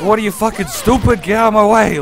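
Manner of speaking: mock road rage shout, loud and high; angry driver yell. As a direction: yell at other drivers like a furious cabbie. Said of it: "he's such an angry driver".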